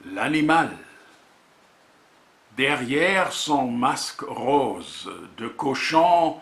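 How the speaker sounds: measured poetry reading with deliberate pauses; poem recitation. Acted. Poet presenting a volume of words and images, reciting. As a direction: recite in short, separated phrases, letting titles stand alone.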